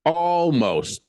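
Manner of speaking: loud, high, stretched-out repeat; teasingly exaggerated disbelief; mock-indignant echo. Real, not acted. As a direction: throw the word back, drawn out. Mock echo of friend's word.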